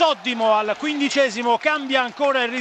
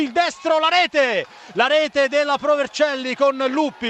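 excited goal call; 2 semitones higher than usual. Real, not acted. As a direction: shout the goal as it happens. (grido del gol in telecronaca)

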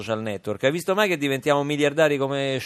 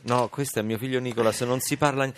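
ordinary talk, nothing marked

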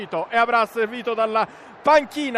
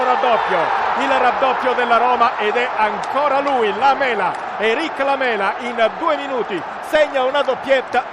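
breathless italian goal commentary. Real, not acted. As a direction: bellow the second goal. Roma second goal called live.

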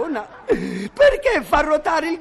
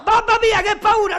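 higher, hammed-up scared cry; mock fright; 6 semitones higher than usual. Boy pretending to be scared of the monster, in mock fright. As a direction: pretend to be terrified.

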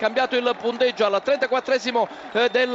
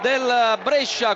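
higher, stretched call of the goal; excited goal call; 4 semitones higher than usual. Real, not acted. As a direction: lift the voice for the goal. Live goal call on radio.

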